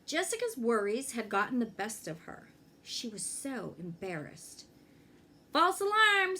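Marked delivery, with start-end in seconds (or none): 5.5-6.4 relieved. A narrator's reading. Dad relieved after scare.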